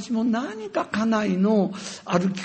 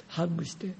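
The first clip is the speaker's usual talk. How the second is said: ordinary delivery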